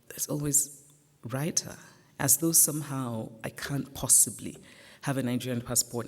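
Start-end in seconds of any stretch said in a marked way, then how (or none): 1.3-1.8 "writer" lifted into a sceptical question; mock doubt on "writer", ending on a rise; doubting echo. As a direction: echo "writer" with a rising, disbelieving tune. Officials echoing her answer in disbelief.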